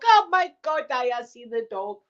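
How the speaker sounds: high mock horror, softening at the end; hammed-up queasy high voice; squeamish politeness. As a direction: imitate agreeing while horrified. Retold squeamish reply to gory pictures.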